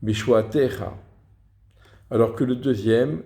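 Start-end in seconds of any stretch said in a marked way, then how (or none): 0.0-1.0 "Bishuatecha" with the accent on "te", before the final syllable; stress on TE. Shown as a demonstration. Teacher repeating the rule's example, "Bishuatecha" stressed on "te". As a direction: put the weight on "te" in "Bishuatecha". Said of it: "sur la lettre qui est voyellée du Ségol".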